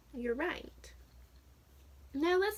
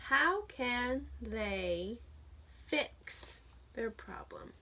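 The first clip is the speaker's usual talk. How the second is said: mystery whisper; 5 dB quieter, slower than usual. Acted. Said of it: "teasing mystery question".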